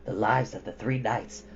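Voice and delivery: a hint of a worried old djinn; grave djinn. A narrator's reading. Blue djinn warns his lord, low and hushed.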